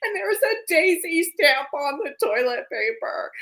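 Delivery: words spoken through tears, crying. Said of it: "she starts crying".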